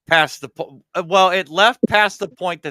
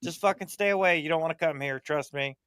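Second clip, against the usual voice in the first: wary alien message; 4 semitones higher than usual. Retold or imitated. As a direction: start bright, then sink into a secretive warning. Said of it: "be like".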